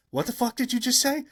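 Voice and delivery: high, floored disbelief; stunned double take. Retold or imitated. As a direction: react as if you misheard something impossible. Michael does a triple take.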